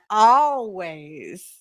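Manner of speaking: stretched always with a rising Minnesota lilt; a playful Minnesota accent imitation. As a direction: copy Kurt's Minnesota always. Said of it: "I just love how he pronounces stuff".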